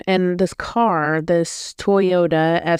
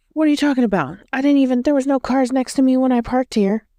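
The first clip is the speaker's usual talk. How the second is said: higher-pitched mock indignation; indignant retort; 7 semitones higher, faster than usual. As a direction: imitate a rude woman's incredulous comeback. Retelling rude woman's indignant outburst.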